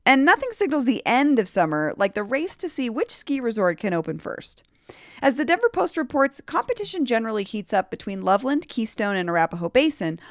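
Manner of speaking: lively podcast news read with swooping pitch; scripted news read. Real, not acted. Host tells Denver listeners about ski season, scripted news read. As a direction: read the local headlines to listeners.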